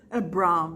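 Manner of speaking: Bram with a wide open A. Shown as a demonstration. Teacher showing students the Irish way, open A in Bram. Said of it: "O som do A, ele é mais aberto".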